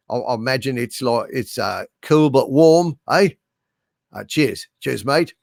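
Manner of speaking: lightly put-on Australian accent; playful mock-Australian twang. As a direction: greet an Aussie mate in his accent. Mimics his Australian viewer's speech.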